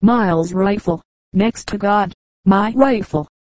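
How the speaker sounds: slow, drawn-out bandit voice; drawled. Acted. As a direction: drawl the words out lazily. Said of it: "as he drawled".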